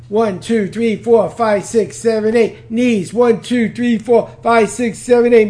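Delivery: rapid-fire exercise count; brisk drill-leader counting; as fast as possible. Shown as a demonstration. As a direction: rattle off the count in quick rhythm. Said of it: "go as fast as you can".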